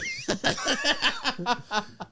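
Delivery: high giddy laugh; high burst of laughter. Real, not acted. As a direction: laugh out in starstruck delight. Meets his hero.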